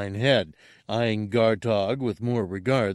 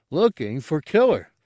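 Gamorrean grunt; 6 semitones higher, 5 dB louder than usual. Acted.

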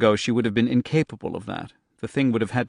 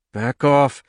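shouting; 3 semitones higher, 6 dB louder than usual. Acted. Girl fights her fire power.

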